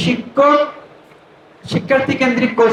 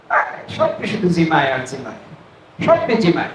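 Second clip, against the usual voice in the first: mock drowsy teacher; 6 semitones lower, 4 dB quieter than usual. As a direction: imitate a seated teacher nodding off, lightly. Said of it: "আপনি বসবেন আর বলবেন".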